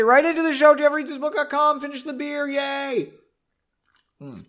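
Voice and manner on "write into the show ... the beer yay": high, bright plug for the show; announcer voice. Pretend. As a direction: sell it like a cheesy ad.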